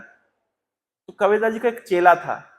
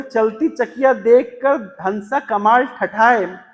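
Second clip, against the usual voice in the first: slow verse recital; much slower than usual. Acted. Reciting Kamal's couplet.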